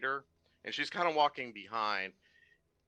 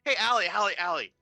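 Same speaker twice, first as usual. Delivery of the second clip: loud, higher hail across the stalls; raised-voice shout for attention; calling out; 7 semitones higher, 6 dB louder than usual. Acted. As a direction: call her over urgently. Marvin calls over to Allie.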